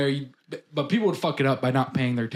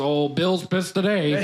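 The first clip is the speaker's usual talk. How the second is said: put-on Canadian accent; much slower than usual. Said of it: "a very strong Canadian accent".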